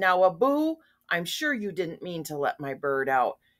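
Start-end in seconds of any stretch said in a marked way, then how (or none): none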